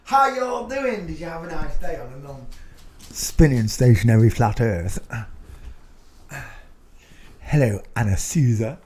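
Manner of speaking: big, loud hello to the chat; loud stream greeting. Real, not acted. Streamer greeting his chat viewers by name, loud and hearty. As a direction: call out a welcome to each viewer.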